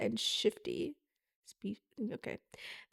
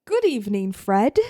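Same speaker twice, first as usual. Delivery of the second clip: put-on British accent; 2 semitones lower, 5 dB louder than usual. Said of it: "That was not a British accent".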